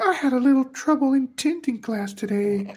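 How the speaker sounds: Frenchie imitation. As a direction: play the ditzy student, giggling through it. Frenchie quoted admitting trouble.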